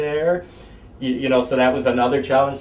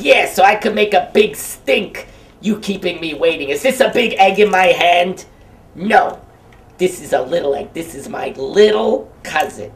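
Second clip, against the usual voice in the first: high, loud put-on puppet voice, indignant; Humpty puppet scolding a kid, dopey Clinton-esque voice; dopey Humpty Dumpty voice; 6 semitones higher, 5 dB louder than usual. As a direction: play the dopey egg, offended at being kept waiting. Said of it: "that's his voice".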